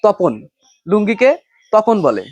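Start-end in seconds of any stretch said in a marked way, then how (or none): 0.0-0.3 তপন said as the local word for lungi; dialect word. Shown as a demonstration. Villager naming the local word for lungi. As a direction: present তপন as the village term. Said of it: "আঞ্চলিক ভাষায় এটাকে বলে".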